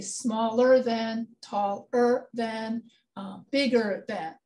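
slow, drawn-out examples; slow teaching. Shown as a demonstration. Teacher giving comparatives to her student, slow and drawn out. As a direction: stretch each example for the student. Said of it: "So when we're comparing two things".

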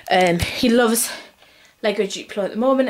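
out of breath, short breaths. Real, not acted. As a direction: talk while catching your breath. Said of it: "I'm so out of breath".

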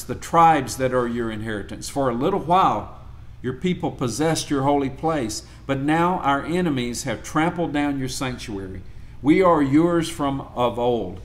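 measured, solemn Bible reading; scripture reading. Acted. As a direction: read it out like a lector. Reads Isaiah aloud to class.

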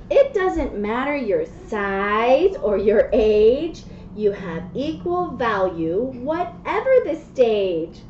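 slow, sing-song picture book reading; reading to children. Acted. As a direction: read the rhymes gently to a child. Reads picture book aloud.

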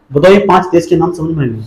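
ordinary talk, nothing marked

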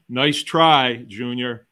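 telling the police officer no while laughing; mocking nice try. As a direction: brush off the officer with a chuckle. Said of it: "you have to say".

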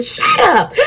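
very high mock screech; acted-out high-pitched yell; retold scream. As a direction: imitate a screaming officer in a squeal. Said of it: "He starts screaming".

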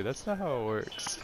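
calm, matter-of-fact repeat. Retold or imitated. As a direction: say it calmly and evenly. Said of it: "and then just calmly say".

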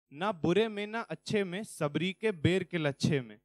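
measured, rhythmic verse with even line endings; poem recitation. Acted. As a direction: recite it line by line in a steady cadence.

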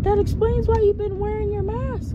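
high-pitched mimicry of coworkers; realising coworker. Coworkers working out why teacher wore mask, realisation. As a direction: imitate sudden understanding in a high voice.

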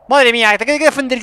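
sudden loud dismayed cry; loud exclamation. Real, not acted. Player reacts to the attack with a loud dismayed cry. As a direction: blurt it out in alarm.

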